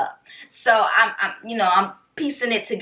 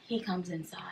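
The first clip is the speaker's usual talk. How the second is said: suspenseful whisper; 16 dB quieter than usual. Real, not acted. Storyteller reveals the follower came inside, suspenseful whisper. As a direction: drop to a hushed whisper.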